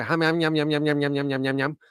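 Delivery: mock Black Country gabble, syllables run together; rapid-fire imitation of Black Country dialect; Black Country yam-yam. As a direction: chant it as a Black Country caricature. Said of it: "like this".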